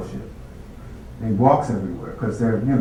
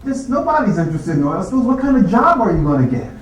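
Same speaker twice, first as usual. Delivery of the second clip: higher, incredulous colleague voice; imitating colleagues; 9 semitones higher than usual. Colleagues questioning his oil spill research, higher mock disbelief. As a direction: scoff like a doubtful classmate. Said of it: "my colleagues are going".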